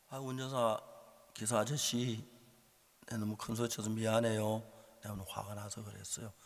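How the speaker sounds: composed, conciliatory tone; calm apology. Retold or imitated. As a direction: offer it simply to settle things. Retold calm apology to driver.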